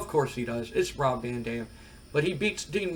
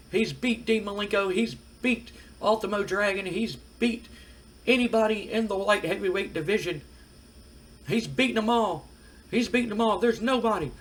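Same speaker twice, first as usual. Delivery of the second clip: Jim Cornette promo; 4 semitones higher than usual. Retold or imitated. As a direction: sell the champion like a ringside manager hyping his man. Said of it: "he starts cutting a promo and he goes".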